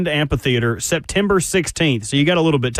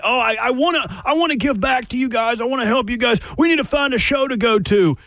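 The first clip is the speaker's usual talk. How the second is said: mock-generous, higher-pitched imitation; magnanimous host; 5 semitones higher than usual. Co-host mimicking Buck offering to help everyone, mock magnanimous. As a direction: put on a show of eager generosity, mockingly. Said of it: "look like a magnanimous host".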